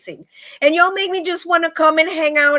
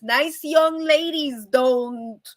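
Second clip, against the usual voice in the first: slow, drawn-out motherly reminder; measured mock lecture from mama; mama's admonishing; much slower than usual. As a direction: lightly imitate a mother teaching manners. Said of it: "like my mama always says".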